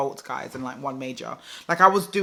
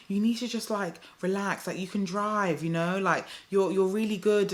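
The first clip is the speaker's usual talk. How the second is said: lightly imitated encouraging instructor, softer; retold gentle reassurance; 3 semitones higher, 3 dB quieter than usual. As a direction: coax gently in a slightly raised voice. Instructor reassuring her after failed test.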